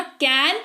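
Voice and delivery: "कैन" alone as the first beat; isolated syllable. Shown as a demonstration. Teacher showing the first mouth movement, "कैन" on its own. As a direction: open the mouth on a separate "कैन". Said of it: "मतलब आपने मुंह खोला".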